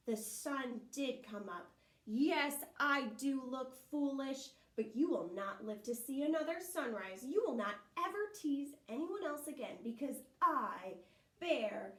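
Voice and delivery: loud grim bear threat; menacing bear. Acted. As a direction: loom over him like a hungry bear.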